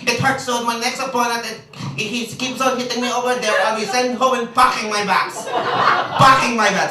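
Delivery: hesitant, halting mock boxer voice; lightly voiced Filipino boxer; imitating Manny Pacquiao. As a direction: play the humble boxer shrugging. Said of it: "Manny Pacquiao would go".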